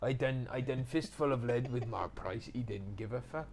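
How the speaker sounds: imitated South Wales speech; Welsh accent. Actor talks as a Welsh mate would, Welsh accent. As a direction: tell it in a put-on Welsh accent. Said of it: "the Welsh accent".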